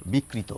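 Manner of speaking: বিকৃত as bik-kri-to, k doubled; low-pitched, soft demo of double-k বিকৃত; doubled consonant. Shown as a demonstration. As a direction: say বিকৃত with a held k. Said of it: "Bangla উচ্চারণ রীতি মেনে".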